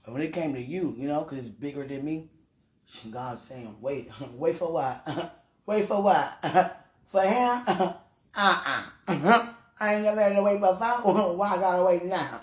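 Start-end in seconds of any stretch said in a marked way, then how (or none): 3.8-12.4 incredulous questions broken by chuckles; laughing protest. Acted. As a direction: balk at it, laughing between phrases. Acts out balking at God.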